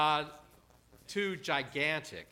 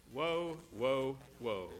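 hushed refrain; 3 semitones lower, 5 dB quieter than usual. Acted. Preacher's slow, fading triple refrain.

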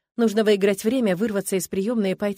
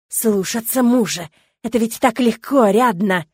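louder and slow, hissing through the throat grip; hissed in rage; 3 semitones higher, 8 dB louder than usual. Acted. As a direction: spit each word at her, furious. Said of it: "шипит он". (шипит от ярости, громко и медленно)

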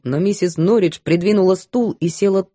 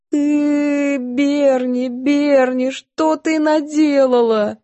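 sobbing lament; 7 semitones higher, much slower than usual. A narrator's reading. Maid sobbing over cook.

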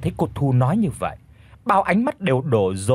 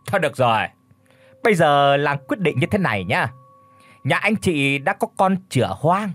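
pompous verdict; 2 semitones higher than usual. Acted. Chief pronounces the fine to the family, pompous. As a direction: lay down the fine with authority.

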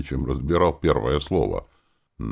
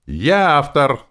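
loud, higher, slow outburst; shouted; 10 semitones higher, 8 dB louder, slower than usual. A narrator's reading. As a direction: yell it at him, proud. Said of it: "выкрикнула она". (громкий выкрик, выше и медленнее)

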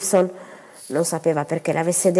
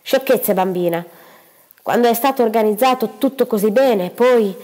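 higher, louder brushing-off mother; dismissive mother; 4 semitones higher, 3 dB louder than usual. Acted. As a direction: wave the daughter's protest away. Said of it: "Mrs Gibson dismisses daughter". (madre sprezzante, voce più acuta)

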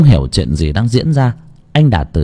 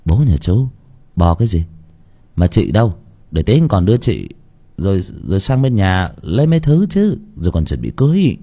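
put-on lower, brusque young man; mild scolding; 3 semitones lower than usual. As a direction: brush the boy off. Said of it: "thì mới quát".

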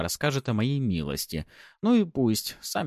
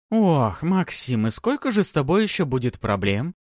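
higher, louder mock repeat; lady mimicking; 8 semitones higher, 5 dB louder than usual. A narrator's reading. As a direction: echo the assistant teasingly. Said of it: "повторила за своим помощником боярыня".

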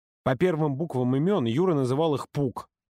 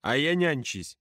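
raised, indignant protest; furious outburst; 5 semitones higher, slower than usual. Acted. Юрка furious at being left to babysit, angry outburst. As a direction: spit it out in outrage. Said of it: "взбесился Юрка".

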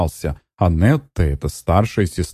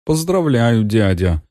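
насмешливое поздравление, чуть выше; поддень дядю с ехидцей; ехидно; 6 semitones higher, slower than usual. A narrator's reading. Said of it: "ехидно сказал он". (ехидно, с подколкой)

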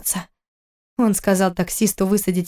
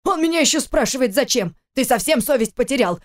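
гневно; 4 semitones higher than usual. Acted. Отец кричит на сына.

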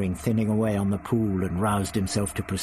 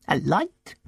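put-on raised, testy old man voice; the Doctor lectures Ian, smug and raised; 6 semitones higher than usual. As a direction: play the prickly old Doctor. Doctor sceptical.

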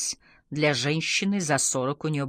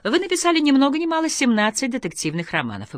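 high, loud interviewer voice; lifted, punchy host delivery; TV presenter; 9 semitones higher, 5 dB louder than usual. A narrator's reading. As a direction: introduce a guest's achievements on air.

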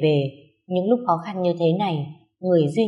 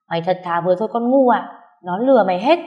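exasperated scolding; 5 dB louder than usual. Acted. Friend scolding her naivety.

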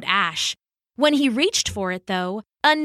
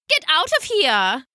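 raised, higher-pitched storybook shout; indignant shout; 5 semitones higher than usual. Acted. Haddo to the mouse in his bed, indignant shout. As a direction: shoo it off with a sharp cry. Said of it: "he shouted".

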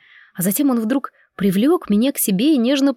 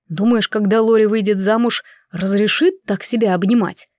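plain reading voice

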